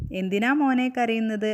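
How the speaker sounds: lightly acted concerned question; concerned uncle. Moon uncle to the crying kite, concerned. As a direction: ask a crying child, voice a little lifted.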